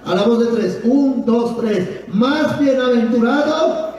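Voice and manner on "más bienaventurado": "Más bienaventurado" slow, held open at the end; cue to complete. Shown as a demonstration. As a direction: draw out "Más bienaventurado" for others to finish. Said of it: "pero usted va a completar". ("Más bienaventurado" lento, dejado en suspenso)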